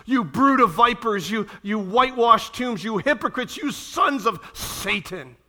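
loud, slow rebuke; Jesus condemning the Pharisees, loud and slow; indignant Jesus. Retold or imitated. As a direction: denounce them word by word. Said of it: "He's indignant when he says to the Pharisees".

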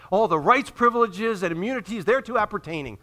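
lively recital of official wording; relishing formal wording. Acted. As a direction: roll off the official phrase with relish. Repeats diploma phrase with relish.

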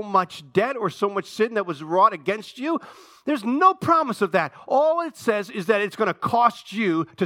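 impassioned pulpit insistence; emphatic preaching. Real, not acted. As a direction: drive each point home to the congregation. Preacher presses the point home.

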